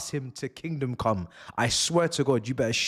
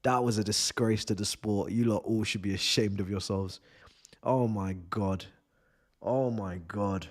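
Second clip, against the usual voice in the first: low, deflated disbelief; drained disgust; 5 semitones lower, 3 dB quieter than usual. Real, not acted. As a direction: sink into weary disappointment. Drained disgust after the match.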